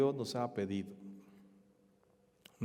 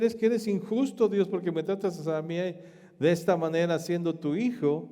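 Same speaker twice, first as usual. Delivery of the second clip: louder, higher indignant protest; mock complaint to God; 3 semitones higher, 3 dB louder than usual. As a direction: cry out like a wronged child blaming God. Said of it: "no puedes decir".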